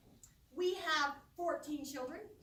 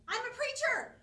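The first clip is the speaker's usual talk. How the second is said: mock yell; 8 semitones higher, 7 dB louder than usual. Someone yelling from the audience.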